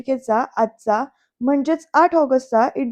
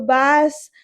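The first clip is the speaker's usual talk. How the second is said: retold yell; 3 semitones higher, 4 dB louder, much slower than usual. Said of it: "Yugandhar तिलाच ओरडतो".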